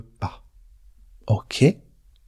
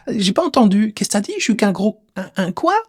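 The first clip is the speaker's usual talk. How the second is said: teasing mishearing; 6 semitones higher than usual. Pretend. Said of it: "tu joues un peu avec".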